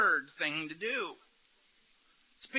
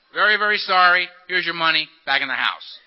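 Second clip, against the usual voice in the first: perfunctory apology; 2 semitones lower, 6 dB louder than usual. Acted. Making amends to someone wronged, perfunctory mock apology. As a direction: rattle off a mock amends, starting loud.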